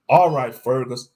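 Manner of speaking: exasperated outburst; ranting. Acted. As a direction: snap it out, impatient. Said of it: "I ranted".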